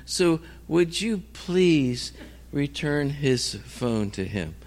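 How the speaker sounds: slow, polite, careful request; overly nice. Retold or imitated. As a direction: imitate a wife gently composing a courteous text, word by word. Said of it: "don't be so nice".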